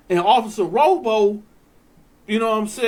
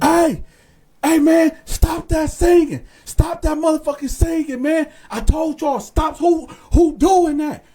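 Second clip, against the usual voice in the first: mock guard shout; 5 semitones higher, 3 dB louder than usual. Guard yelling to stop singing.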